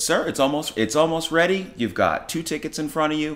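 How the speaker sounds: smooth things over like a nervous server; placating service voice. Retold or imitated. Owner reassuring impatient customer.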